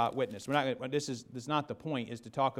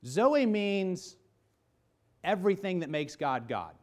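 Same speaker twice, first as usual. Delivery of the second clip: emphatic reveal; 6 semitones higher, 4 dB louder, slower than usual. Retold or imitated. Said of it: "Then you say".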